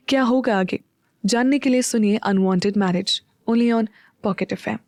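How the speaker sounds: dramatic cliffhanger narration; voice-over teaser asking what happens next; episode teaser. A narrator's reading. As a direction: hook the listener for the next episode.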